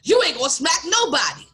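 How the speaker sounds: imitating a mad coworker; angry retort. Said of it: "this is where he got mad".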